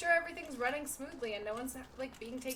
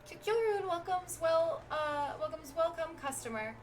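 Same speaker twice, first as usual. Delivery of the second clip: higher sing-song creature voice; squeaky little creature; 7 semitones higher, 6 dB louder than usual. Acted. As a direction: chirp the rhymes like a tiny merchant critter. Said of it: "going for it with the voices today".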